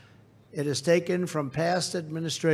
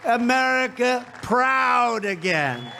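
shouted rally climax; 3 semitones higher than usual. Real, not acted. Rally climax, crowd chant lines.

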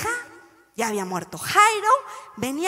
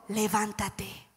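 slow call; 4 semitones lower, 9 dB quieter, much slower than usual. Shown as a demonstration. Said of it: "Dilo una vez más conmigo".

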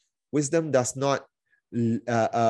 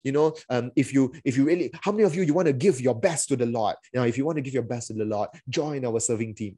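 guilt-tripping pitch; faster than usual. Retold or imitated. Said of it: "guilt trip and".

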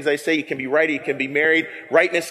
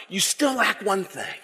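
Bert and Ernie voice; 5 dB quieter than usual. Pretend. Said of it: "like a Bert and Ernie voice here".

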